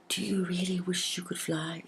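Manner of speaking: a little cloud whispering to the mud fairy; soft whisper. A narrator's reading. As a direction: breathe it like a secret. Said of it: "it whispered".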